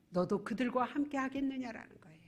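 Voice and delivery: sudden hushed whisper after the shout. Real, not acted. Pastor whispering the warning to the congregation. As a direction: drop to a breathy whisper.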